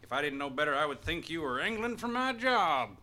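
hammed-up Western sheriff accent; old-timey Western accent. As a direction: play the folksy old-West sheriff. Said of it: "speak in old-timey Western accents".

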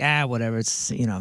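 low, soft acted indifference; relaxed verbal shrug; easygoing shrug. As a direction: brush it off quietly, pitch dropped. Acts out shrugging at child's bite.

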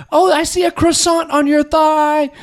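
high, slow teasing taunt; mock instructor taunt. Guest imitates Richard teasing women about their thighs, high and camp. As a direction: tease the class like a campy aerobics coach. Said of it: "he'd yell at the women".

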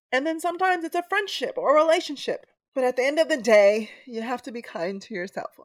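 high, tearful, on the edge of crying; speaking through real tears; snotty crying. Real, not acted. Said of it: "I'm, like, snotty s-, crying".

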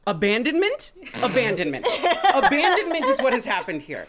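lightly voiced needy cat, mock outrage; cat's voice. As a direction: play the clingy cat scolding its owner, half in jest. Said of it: "they're just like".

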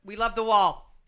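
loud Boston Trump-fan voice; hammed-up Boston accent. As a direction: cheer the wall like a Boston local. Continues Boston impression.

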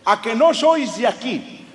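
high, slow, exaggerated Spain accent; mock Spaniard accent. Nosy Barcelona cabbie butting into family chat, mock Spain accent. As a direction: butt in with a hammed-up Castilian Spanish accent. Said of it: "el taxista ... se llamaba Manolo".

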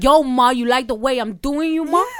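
slowed-down put-on New York accent. Mimicking an American man's pick-up line, New York accent. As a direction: lay on a slow New York come-on. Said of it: "I like a New York accent".

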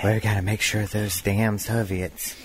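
Reagan impression. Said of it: "Can you do Reagan?".

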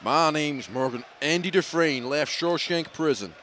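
slow film narration; measured, unhurried actor impression; Morgan Freeman. Host narrating the prison film, slow impression. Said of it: "That guy sounds just like him".

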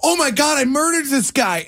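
retold freak-out. Teller relives thinking he killed a classmate, mock panic. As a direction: re-enact panicking over what you did. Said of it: "And I'm freaking out".

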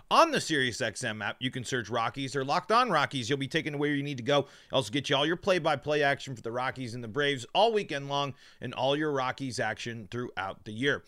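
numb mouth after dental work; talking with a numbed mouth; numb from the dentist. Real, not acted. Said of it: "I have a ton of numbing things still in my mouth".

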